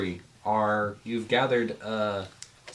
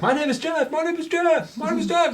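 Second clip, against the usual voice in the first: very high, loud repeated goblin cries; goblins yelling; 5 dB louder than usual. Acted. Goblins banging on the locked door, high yelling. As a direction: pound and wail the name like locked-out goblins. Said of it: "hitting the door, trying to yell your name".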